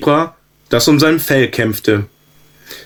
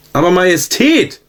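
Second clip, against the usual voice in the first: higher, a hint of an outraged zebra; indignant snort; 6 semitones higher than usual. A narrator's reading. Zebra talks back to the prince, mildly indignant. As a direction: protest with a huff. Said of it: "schnaubte das Zebra nicht weniger empört".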